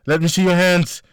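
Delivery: loud, high firm order; commanding. A narrator's reading. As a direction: bark the order. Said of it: "Melissa commanded".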